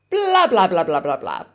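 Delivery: burlesque a long-winded answer with a string of blahs; rattled-off filler. Acted. Teacher mimics a student who keeps on talking, rattled-off filler. Voices a talkative reply trailing into filler.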